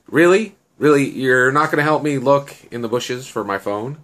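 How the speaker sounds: high, loud "really?" of mild outrage; incredulous complaint. Acted. Annie calls out Shen for not helping search, incredulous.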